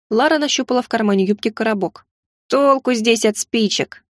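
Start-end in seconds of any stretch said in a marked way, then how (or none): 2.5-4.0 ворчливо. Acted. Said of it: "проворчал тот".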